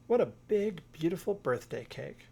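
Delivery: high, loud burst of delight. Acted. Little Bear thrilled by Mother Bear's big cake, high and delighted. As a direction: gush over the big surprise.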